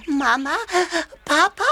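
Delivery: whimpering call for mama and papa; tearful little cry; crying for parents. Acted. Baby elephant wakes, calls parents.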